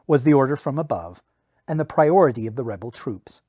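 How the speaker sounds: steady audiobook reading; story narration. A narrator's reading. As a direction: read the battle scene like an audiobook. Novel narration read aloud.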